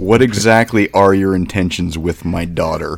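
put-on slow, stern father grilling the boyfriend; gruff overprotective dad. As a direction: loom over him like her dad. Teasing about meeting girlfriend's parents.

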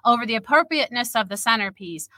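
steady storyteller read, characters lightly voiced; measured, literary reading voice; story narration. A narrator's reading. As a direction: read the scene aloud like a novel. Reads her story aloud.

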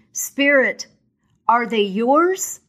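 appalled Scrooge. Acted. Scrooge, appalled, questions the ghost, high and slow. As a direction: ask it as if horrified.

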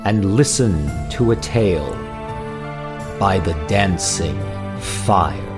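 slow, low, hushed spooky intro; gothic narrator. Acted. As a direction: set a dark mood, slowly. Eerie intro over music.

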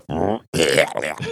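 mock drunken gurgle; imitated gurgling. Storyteller imitating drunk friend in the bushes, imitated gurgling. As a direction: gurgle like someone throwing up. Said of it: "You can hear him gurgling back there".

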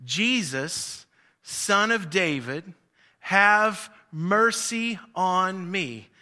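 slow stretched call at normal level; lighter holler. Retold or imitated. Blind man first calling to Jesus, slow unforced cry. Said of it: "to holler out".

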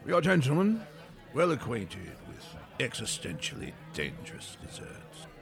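dramatic French refusal; French waiter. Acted. Pettiford refuses dessert.

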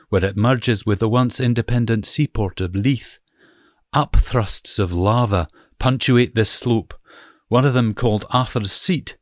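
put-on reading in a light Scottish accent; a mild Scottish accent for a formal description; Scottish accent, lightly put on. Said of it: "So here is a Scottish accent for you as well".

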